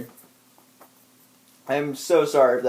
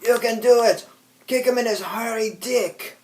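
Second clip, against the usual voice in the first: cheering redneck; 8 semitones higher than usual. Retold or imitated. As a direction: cheer like a Cajun fan. Repeating the cheering quote.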